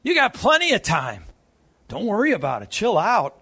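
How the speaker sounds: a light, breezy mock tempter; tempting voice. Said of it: "the siren song of Satan".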